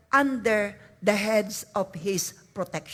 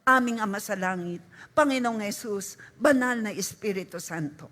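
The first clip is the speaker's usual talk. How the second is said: soft reverent prayer; 3 semitones lower than usual. Shown as a demonstration. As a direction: lower and softer, reverent naming of God. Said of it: "Sabihin natin". (mahinang mapitagang pagtawag sa Diyos)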